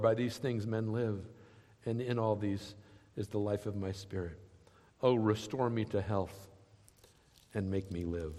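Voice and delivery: lifted, earnest reading that sinks to a hush at the end; dramatic scripture reading. Acted. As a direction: read the lament like a prayer, then let it fade. Reads Hezekiah's prayer aloud.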